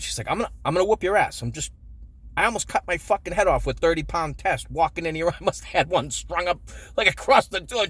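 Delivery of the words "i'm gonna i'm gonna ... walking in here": mock-angry mom. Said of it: "getting real mad".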